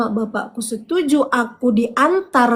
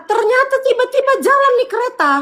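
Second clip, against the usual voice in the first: panicked retelling; 10 semitones higher, faster than usual. Retold or imitated. Train suddenly leaves, panic.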